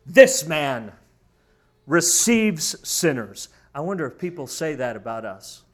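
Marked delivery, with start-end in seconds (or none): 0.0-3.5 grumbling. Acted. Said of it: "they grumbled, saying".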